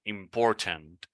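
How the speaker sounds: "important" slowly with a clear "tent" ending; full-t important. Shown as a demonstration. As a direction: sound out every syllable of "important". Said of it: "The accent".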